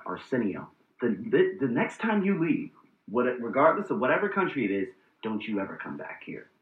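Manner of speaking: instinct talking. Retold or imitated. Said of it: "That was my instinct talking".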